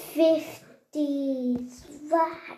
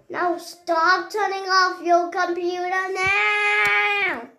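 mock angry wail; 4 semitones higher than usual. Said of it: "I'm so angry".

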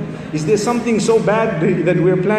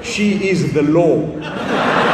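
laughing punchline; 3 semitones lower, much slower than usual. Pretend. Punchline of in-law joke.

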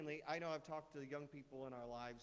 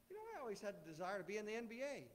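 joking boast; 5 semitones higher, faster than usual. Pretend. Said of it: "one of my joking ones was".

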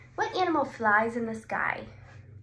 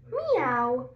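cat meow. Retold or imitated. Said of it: "the cat says".

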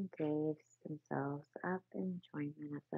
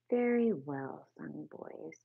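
a hearty call, slow and louder; hearty rat; 4 dB louder, slower than usual. Acted. Hearty rat voice. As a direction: rat cheering the singing field mice. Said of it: "cried the rat heartily".

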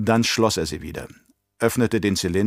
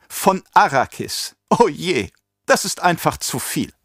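amused mockery; 7 semitones higher than usual. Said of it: "Peter fing an zu lachen".

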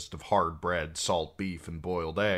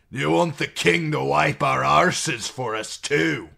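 louder, higher outraged jab; angry retort; 9 semitones higher, 10 dB louder than usual. A narrator's reading. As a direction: hurl it at them in outrage. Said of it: "said Cotter Pike angrily".

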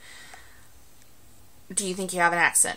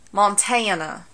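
"Montana" drawled in a Southern accent, "Mon" nasal; slower than usual. Shown as a demonstration. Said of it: "show you how bad my accent gets".

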